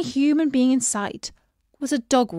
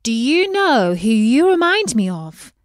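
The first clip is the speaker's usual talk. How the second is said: lightly voiced young princess, bright and curious; a hint of a girlish princess asking gently; Beatrice the princess; 2 semitones higher, 8 dB louder than usual. A narrator's reading. Princess to the fish, lightly voiced and curious. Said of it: "she asked".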